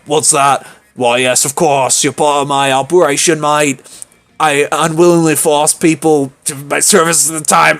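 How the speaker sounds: Miranda in a wobbly put-on accent; badly faked accent. Miranda plotting Operation Make Liam Popular Again, shaky fake accent. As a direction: attempt a foreign accent, not quite landing it. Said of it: "I can't do this accent".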